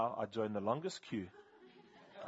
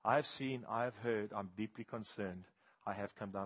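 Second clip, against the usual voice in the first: soft scripture, fading softer; God's gentle voice; 3 semitones lower, 4 dB quieter than usual. Retold or imitated. Pastor hearing God speak, a gentle fading hush. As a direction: let the words sink to a hush. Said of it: "I feel God say".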